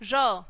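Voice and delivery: र as a falling, isolated "ruh"; phonics sound. Shown as a demonstration. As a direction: sound out र for young learners. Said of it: "क्या बोलेंगे इसको". (र को अलग ध्वनि की तरह बोलें)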